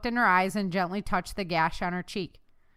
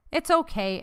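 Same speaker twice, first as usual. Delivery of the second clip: high, lilting reassurance; cheerful; 8 semitones higher, 4 dB louder than usual. A narrator's reading. Woman forgiving the dog, cheerfully reassuring. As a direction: pitch it up, light and happy. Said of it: "Erica said cheerfully".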